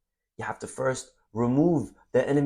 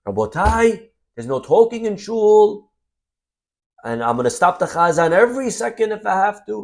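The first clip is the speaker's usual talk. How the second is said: stern scolding; 8 semitones higher, 5 dB louder than usual. Retold or imitated. Young rabbi scolds the congregation.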